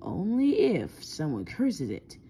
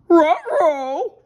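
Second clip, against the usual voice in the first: high, loud doggy uh-oh; loud, high-pitched canine dismay; cartoon dog voice; 11 semitones higher, 12 dB louder than usual. A narrator's reading. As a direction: yowl it like a worried talking dog. Scooby's catchphrase in story read aloud.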